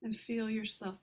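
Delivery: calm meditation guide, unhurried, with long pauses; guided meditation. Real, not acted. Meditation leader guiding listeners to relax the heart, calm guided meditation. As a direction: ease listeners gently through each step, leaving room to breathe.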